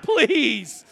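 high, loud, slow exasperated begging; embarrassed dad pleading; frantic plea. Retold or imitated. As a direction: beg him to stop in a panic. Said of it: "And I'm like".

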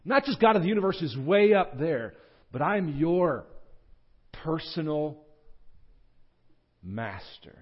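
earnest personal appeal, pitched high; God. Acted. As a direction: make an emphatic, heartfelt declaration. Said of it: "It's like saying".

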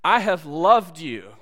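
God says it slowly; slow and firm, leaning on I; slow, earnest, as God. Acted. Preacher voicing God to his people, slow and firm. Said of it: "God says".

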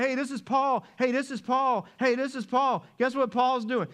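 mocking, sing-song high calls; taunting slave girl. Slave girl pestering Paul in the street, mocking high calls. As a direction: needle him like a pest calling after him. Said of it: "it's like".

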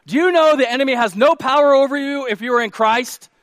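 high, loud rhetorical question; emphatic preaching. Real, not acted. Preacher asks congregation about the enemy, emphatic preaching. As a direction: put the challenge to the whole room. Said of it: "Let me say that again".

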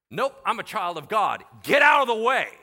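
loud, defiant shout; shouted defiance. Retold or imitated. Paul drives off the sorcerer, loud shout. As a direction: shout him down.

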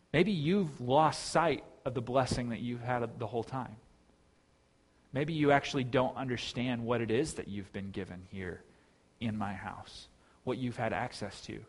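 gently questioning, softening as it goes; pleading father. Acted. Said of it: "he's pleading with his son".

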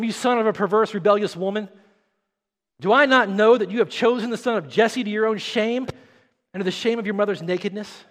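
an angry father cursing his son; Saul's anger. Acted. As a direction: hurl the insults like an enraged king. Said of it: "Saul's anger was kindled against Jonathan".

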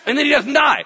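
loud, high, triumphant reveal; excited shout. Acted. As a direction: belt out the twist of the story. Story climax, shouted.

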